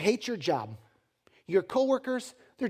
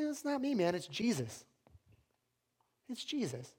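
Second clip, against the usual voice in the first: much softer, understated reply; hushed confession; 4 semitones higher, 7 dB quieter than usual. Acted. Cook answering his buddy, hushed and humble. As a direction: admit it quietly, almost under the breath.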